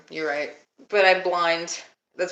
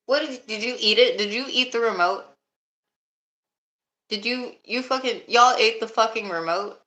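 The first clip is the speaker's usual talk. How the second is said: higher-pitched incredulous questioning; scandalized accusation, pitched up; accusing disbelief; 4 semitones higher than usual. Real, not acted. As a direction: demand an answer, disbelieving. Accusing someone of eating the remote.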